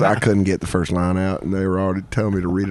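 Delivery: low, deflated imitation; retold glum admission; mock dejection. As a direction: retell it low, like a defeated friend. Repeating the dejected retold confession.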